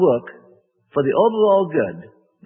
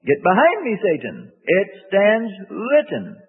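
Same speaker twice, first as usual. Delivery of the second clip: rebuke; 4 semitones higher, slower than usual. Retold or imitated. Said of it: "the pattern that says".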